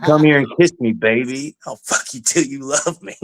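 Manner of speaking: a lightly voiced, lisping Tyson come-on; Mike Tyson impression. To the panhandler, a light Mike Tyson taunt. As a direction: croon the threat like Mike Tyson. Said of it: "I gave him the Mike Tyson drill".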